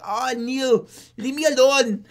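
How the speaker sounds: hammed-up teen girl pushing him away; girlfriend brushing him off. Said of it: "And she's like".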